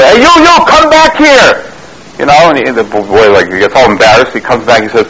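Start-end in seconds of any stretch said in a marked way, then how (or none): 0.0-1.6 sharp high yell across the room. Retold or imitated. Friend yells at the new boy to come back. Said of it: "he yells at the boy".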